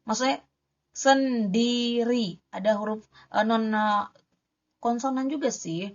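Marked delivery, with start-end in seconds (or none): 0.9-2.4 SENDIRI slowly split as sen-di-ri with a clear R; careful syllable-by-syllable. Shown as a demonstration. Teacher showing an R she can manage, slow clear SENDIRI. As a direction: stretch out each syllable of sendiri. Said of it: "Kalau R-nya sendiri bisa aku baca".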